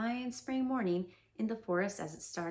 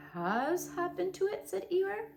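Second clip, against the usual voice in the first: startled Eeyore; 9 semitones higher than usual. Acted.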